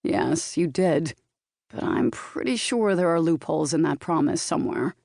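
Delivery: lightly voiced Californian boyfriend, amused; knowing reply with a hint of Californian accent. A narrator's reading. Boyfriend doubting partner's promise, light Californian accent. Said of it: "his Californian accent".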